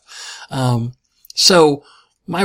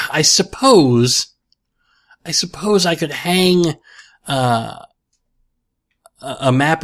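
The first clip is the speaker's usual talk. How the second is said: pensive whisper; slower than usual. Real, not acted. Pondering office decor.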